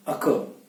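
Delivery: अक, breathed and short; correct occur. Shown as a demonstration. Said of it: "ऑकर नहीं".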